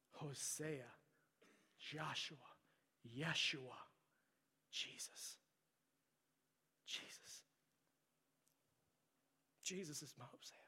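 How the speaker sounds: breathy whispered worship; reverent whisper. Acted. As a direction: whisper the name in awe. Whispered name in sermon.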